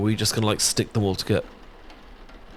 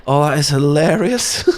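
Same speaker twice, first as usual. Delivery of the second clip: laughing; 5 semitones higher, 3 dB louder than usual. Real, not acted. Laughing at old photo.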